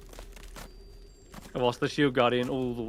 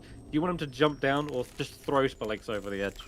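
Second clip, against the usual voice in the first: ordinary talk, nothing marked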